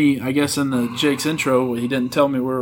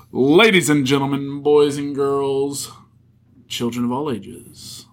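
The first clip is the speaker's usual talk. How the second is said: announcer voice; 2 semitones lower than usual. Acted. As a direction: announce it like a ringmaster. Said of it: "Take two".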